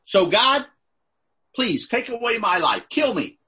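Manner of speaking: angry Jonah. Retold or imitated. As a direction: act out a fed-up prophet's demand. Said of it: "He is angry".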